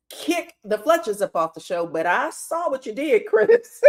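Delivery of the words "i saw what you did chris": calling him out. Real, not acted. Calling out Chris's sneaky move.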